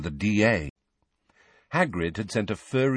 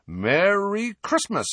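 cheery greeting; 11 semitones higher, slower than usual. Acted. Twins greet Harry cheerfully.

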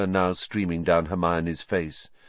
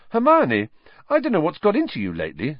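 astounded; 8 semitones higher, faster than usual. Acted. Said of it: "said Ron, astounded".

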